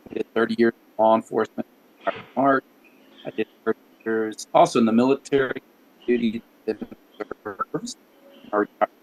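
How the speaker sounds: breaking up on a bad connection; cut-out audio; glitching audio. Real, not acted. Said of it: "Rich, you keep cutting".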